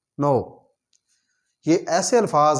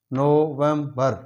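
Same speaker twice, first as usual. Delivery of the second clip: नवंबर drawn out very slowly in syllables; slow syllable drill; much slower than usual. Shown as a demonstration. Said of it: "तीन है इसमें". (नवंबर को बहुत धीरे syllable में बोलना)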